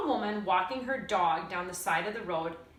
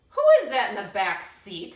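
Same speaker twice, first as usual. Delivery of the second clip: alarmed lady; 8 dB louder than usual. A narrator's reading. Lady hears granny groan.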